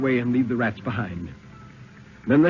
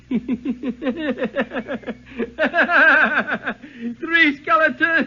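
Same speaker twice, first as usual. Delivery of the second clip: high, loud, slow maniacal shrieking laugh; laughter building into a crazed high scream; horrible mad laughter; 5 dB louder, slower than usual. Acted. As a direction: cackle and shriek it like a man gone mad. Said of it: "he began laughing horribly".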